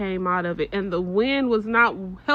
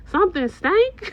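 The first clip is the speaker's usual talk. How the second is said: high and loud, cracking up mid-question; laughing tease; 10 semitones higher, 5 dB louder than usual. Retold or imitated. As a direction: tease it while bursting out laughing. Daughter teasing, laughing.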